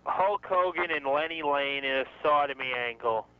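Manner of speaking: put-on slow, stretched non-New York accent. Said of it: "did it in a non-New York accent".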